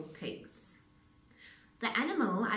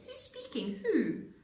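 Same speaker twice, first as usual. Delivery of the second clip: laughing query; 7 semitones higher, 3 dB louder than usual. A narrator's reading. Red on phone.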